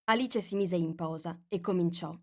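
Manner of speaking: plain reading voice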